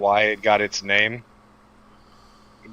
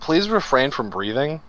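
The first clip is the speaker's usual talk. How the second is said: mock formal echo; slower than usual. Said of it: "echoing the request mockingly".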